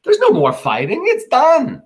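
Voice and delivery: high, loud settling the crowd; loud insistent Brutus. Acted. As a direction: call out that the fight is over. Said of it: "Brutus says".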